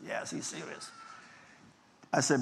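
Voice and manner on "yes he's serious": put-on breathy kids' whisper between siblings; hushed whisper. Children whispering about their serious father, hushed. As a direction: whisper it like worried kids.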